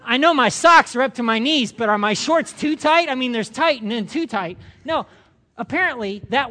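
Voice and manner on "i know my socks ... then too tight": anxious self-check with a laugh; mock panic about tight shorts; worried, laughing. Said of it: "looked at my shorts and gone".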